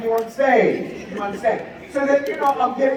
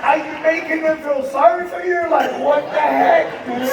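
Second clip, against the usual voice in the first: high, incredulous mock-mother voice; bewildered mother; 8 semitones higher than usual. Mother questioning son about the cash, high and incredulous. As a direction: push it up high in comic disbelief.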